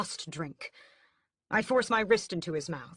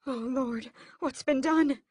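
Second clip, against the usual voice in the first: higher, rising to louder horror; horrified; 8 semitones higher, 4 dB louder than usual. A narrator's reading. Mother seeing her mangled son, horrified cry. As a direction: cry out in dismay.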